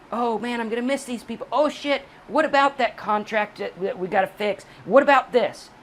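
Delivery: high, fretful mock relative panicking; whiny relative. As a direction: ham up a family member losing nerve. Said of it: "every little tiny step could be".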